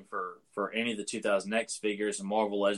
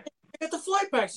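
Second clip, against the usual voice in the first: high, slow, louder, hamming up the find; mock excited announcement; 4 dB louder than usual. Reporting the lame flight packs, high and slowed. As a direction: sell a lame find like a treasure.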